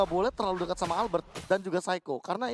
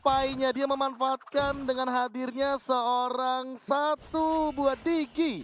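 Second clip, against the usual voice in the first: excited caster; 4 semitones higher, slower than usual. Real, not acted. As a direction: drag out the words in awe. Co-caster breaks down a savage.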